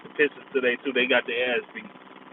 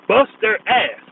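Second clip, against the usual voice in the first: gloating; 6 semitones higher, 5 dB louder, slower than usual. Real, not acted. Gloating over win.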